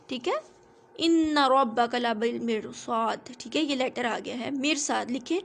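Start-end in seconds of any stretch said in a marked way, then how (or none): 0.9-3.3 Quran recitation. Shown as a demonstration. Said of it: "آ، مرصاد".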